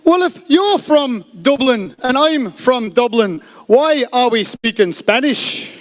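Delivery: high, slow, word-by-word delivery; really slow speech. Acted. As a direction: spell it out slowly to the punchline. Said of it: "just speak really slowly".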